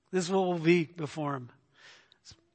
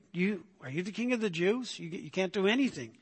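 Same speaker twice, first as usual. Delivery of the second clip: soft, dismissive disbelief; 6 dB quieter than usual. Acted. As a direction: quietly scoff at a harmless man. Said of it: "a tone of disbelief".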